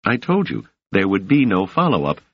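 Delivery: a hint of the young woman, measured and soothing; Doris voice.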